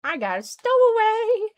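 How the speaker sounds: high excited exclaim. Real, not acted. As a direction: squeal it out, thrilled. Excited game reaction.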